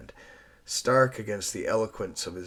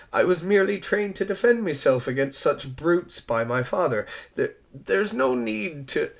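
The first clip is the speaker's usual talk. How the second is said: put-on louder, higher, pleading young woman; earnest flustered Eliza; 4 semitones higher, 6 dB louder than usual. Schoolteacher justifying herself to a stranger, louder and earnest. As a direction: rush to explain herself, slowing at the end. Eliza defends her rough deed.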